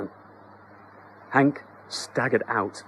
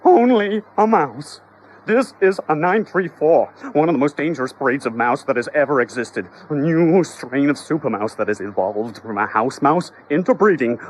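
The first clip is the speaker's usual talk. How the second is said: indignant expert; 2 semitones higher, 3 dB louder than usual. Acted. Exterminator lectures the homeowners, indignant and loud. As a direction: hammer home the danger.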